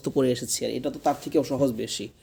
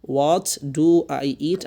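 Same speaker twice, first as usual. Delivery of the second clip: What do I eat stretched very slowly; drawn-out classroom model of What do I eat; slow model question; 3 dB louder, much slower than usual. Shown as a demonstration. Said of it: "teacher models question sentence". (খুব ধীরে টেনে বলা প্রশ্ন)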